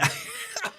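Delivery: sudden shrill burst of laughter; high squeal laugh. Real, not acted. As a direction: squeal with delight.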